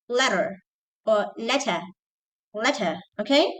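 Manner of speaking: "letter" with single crisp T, no final R; British "letter", no hold on the T; quick British T. Shown as a demonstration. Teacher showing English goes fast, quick British "letter". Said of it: "in English you go fast".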